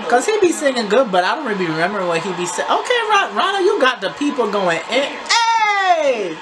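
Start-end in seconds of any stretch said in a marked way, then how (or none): 2.7-6.4 higher, laughing, hyping him up; excited laughing cheer. Real, not acted. Cheering Ronald on stage, laughing with excitement.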